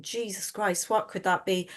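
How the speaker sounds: muttering in quiet shock; a hushed worried aside under the breath; hushed dismay. Retold or imitated. Retelling own shocked inner thought.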